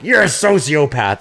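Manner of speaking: high, drawn-out mock yell; retold yell. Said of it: "I yell, I was like".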